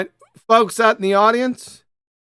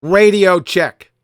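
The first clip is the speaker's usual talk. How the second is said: over walkie talkie; 4 dB louder, slower than usual. Real, not acted. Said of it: "Shout more".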